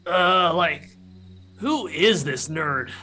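metallic clacking voice. Acted. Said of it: "this kind of metallic clacking voice".

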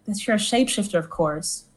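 soft, confidential aside; hushed, dropping away at the end; whispering back. Acted. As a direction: lean in and murmur it secretly. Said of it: "I kinda lean over and whisper it back".

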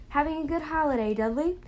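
gentle kind question; kindly. A narrator's reading. Mr Weasley gently asking the frightened Dudley, kind. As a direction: speak kindly to a scared boy. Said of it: "he said kindly".

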